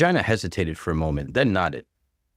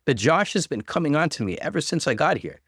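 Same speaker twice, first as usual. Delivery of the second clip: high, tearful rush of accusation; mild acted sobbing plea; crying; 7 semitones higher than usual. A narrator's reading. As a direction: play the wounded victim through tears. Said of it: "she cried".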